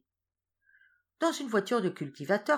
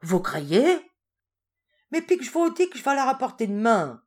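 louder, higher frightened protest; old woman insisting she will return the statue; frightened cry; 8 semitones higher, 9 dB louder than usual. Acted. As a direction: cry out in fear. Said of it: "s'écria avec effroi".

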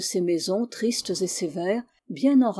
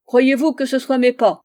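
loud, raised-pitch indignant question; indignant cry; 5 semitones higher, 9 dB louder than usual. A narrator's reading. Pensioner shows footprints to his doctor, crying out indignantly. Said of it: "cria-t-il".

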